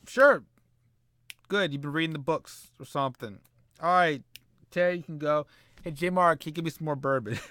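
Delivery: loud, lightly voiced tipsy boss; a drunk speaker. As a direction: ham up a boozy manager asking for bourbon. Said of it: "Eric just turned into a drunk".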